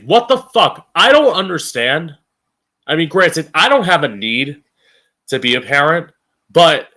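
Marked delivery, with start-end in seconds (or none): 0.0-2.2 real angry disbelief; angry outburst. Real, not acted. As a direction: throw it out in disbelief. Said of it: "getting so angry".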